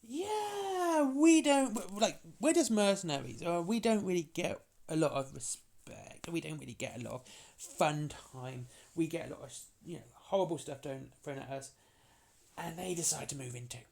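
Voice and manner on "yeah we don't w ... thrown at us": complaining mercenaries. Retold or imitated. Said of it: "these humans decided".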